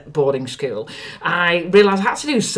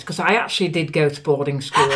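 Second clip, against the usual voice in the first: normal talking voice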